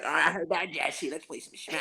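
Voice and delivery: Trevor. Retold or imitated. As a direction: imitate a coworker's odd voice, softening as it ends. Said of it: "And then Trevor's like".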